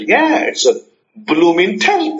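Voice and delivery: lightly put-on London accent. Friend amazed by the Tesla, London accent. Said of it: "there's a London accent now".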